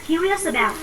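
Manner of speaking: "Curious about" run together as one word; linked words. Shown as a demonstration. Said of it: "Xong mình đọc nối lên này".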